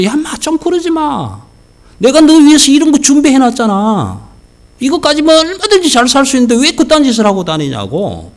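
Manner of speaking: father scolding. Retold or imitated. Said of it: "아버지가 불러서".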